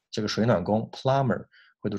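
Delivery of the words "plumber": Australian plumber ending in an open "ah"; Australian accent. Shown as a demonstration. Teacher shows the Australian reading of plumber, Australian accent. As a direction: drop the r in plumber, Australian style. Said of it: "澳大利亚人呢会把这个儿发成啊".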